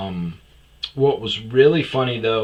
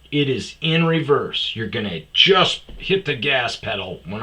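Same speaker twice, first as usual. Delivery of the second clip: loud, higher-pitched scolding; exasperated retold order; 4 semitones higher, 4 dB louder than usual. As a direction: hammer out the instructions, fed up.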